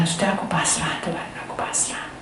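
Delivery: soft, fading surrender to God; resigned surrender. Retold or imitated. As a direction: let the voice sink in giving up. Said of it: "akhirnya dia bilang".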